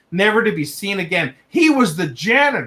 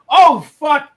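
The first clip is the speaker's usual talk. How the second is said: loud, high disgusted "oh, fuck"; real gross-out yelp; shocked outburst; 9 semitones higher, 7 dB louder than usual. Real, not acted. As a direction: blurt it out, recoiling. Reacting to gross story.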